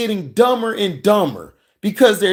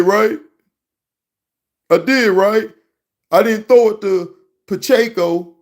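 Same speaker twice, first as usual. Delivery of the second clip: higher, fast, eager mock player voice; mock player seeking praise; 4 semitones higher, 3 dB louder than usual. Mock quarterback asking his coach for praise, higher and quick.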